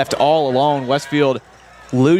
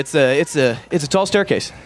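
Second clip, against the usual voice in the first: out of breath. Real, not acted. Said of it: "couple boys out of breath".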